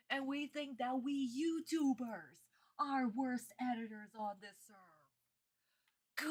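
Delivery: sarcastic whisper, slow and drawn out. Real, not acted. To viewers, about editors, slow sarcastic whisper. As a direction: breathe it out in disbelief, slowly. Mocking the editors' bad TV edit.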